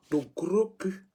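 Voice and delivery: plus fort et plus aigu, avec insistance sur « gros »; crié avec colère. Real, not acted. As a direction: jette « Le gros cul » comme une insulte. Insulte un commentateur en direct. (lancé en colère au commentateur)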